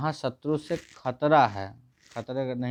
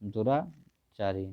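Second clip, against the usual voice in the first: slow emphatic answer; 3 semitones lower, much slower than usual. Shown as a demonstration. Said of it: "क्या होगा".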